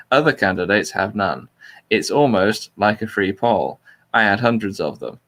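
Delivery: flat, neutral reading of a speech; monotone voice. Shown as a demonstration. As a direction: read it out flat and neutral, no spin. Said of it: "in a completely neutral monotone voice".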